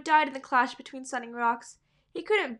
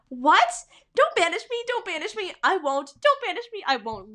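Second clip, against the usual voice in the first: high, loud, hammed-up begging; mocking pleading cat; 6 semitones higher, 5 dB louder than usual. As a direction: parody the whiny repeated plea. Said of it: "like, a conversation between, like".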